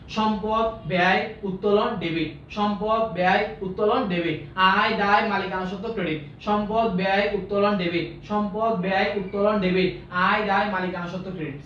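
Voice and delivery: measured drill, toned down from a shout; small careful chunks. Shown as a demonstration. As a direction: recite in short separate pieces, pausing between terms. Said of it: "ছোট ছোট করে বলবো".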